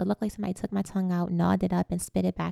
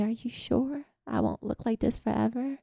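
put-on a touch of a frightened little girl; child seeing her injured face, lightly voiced fear; scared child; 3 semitones higher than usual. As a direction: ask it timidly, a little tearful. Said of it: "I said".

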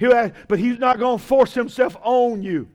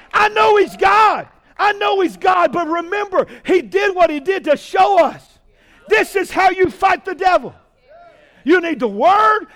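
preaching at full force; 5 semitones higher, 3 dB louder than usual. Real, not acted. Preacher shouting to his congregation at the climax. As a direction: preach it out at the top of your voice.

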